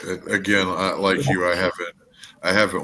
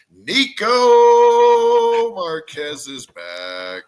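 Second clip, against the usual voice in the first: mock announcement; 11 semitones higher, 9 dB louder, slower than usual. Mock announcement of wrestler's return.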